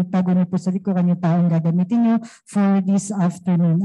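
steady, even praying voice; earnest prayer. Real, not acted. Youth leader praying over the afternoon fellowship, earnest and steady. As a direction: lead the group in heartfelt prayer.

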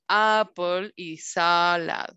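"apple" and "salad" with a drawn-out first vowel; slow teacher model of "apple" and "salad"; short A sound. Shown as a demonstration. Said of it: "las palabras de sonido A son".

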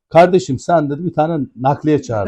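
lightly imitated Istanbul accent; İstanbul şivesi. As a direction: mimic an Istanbul speaker, slowing at the end. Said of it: "bu İstanbul şivesiyle dedi ki bana". (hafif İstanbul şivesi taklidi)

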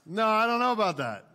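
a sudden loud protest against his own joke; loud mock denial. Real, not acted. Preacher loudly jokes at the congregation, loud playful denial.

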